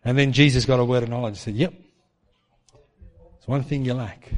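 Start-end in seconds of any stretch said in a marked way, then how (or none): 1.5-4.3 very slow, soft and knowing; slow knowing answer. Retold or imitated. Jesus telling the rich man what he lacks, slow and soft. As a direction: draw it out, gentle and certain.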